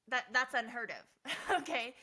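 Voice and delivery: real laugh breaking up the line. Real, not acted. Telling viewers babies never give up, laughing. Laughs at her own point.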